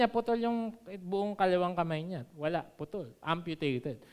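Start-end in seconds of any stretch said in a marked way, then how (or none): none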